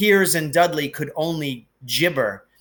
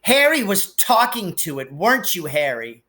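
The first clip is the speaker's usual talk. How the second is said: taunting tattle; 4 semitones higher than usual. Acted. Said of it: "Piers calming down enough to say".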